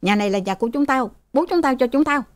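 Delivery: acted heated comeback; glaring retort. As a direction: claim the house defiantly. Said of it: "Thằng Bon quắt mắt".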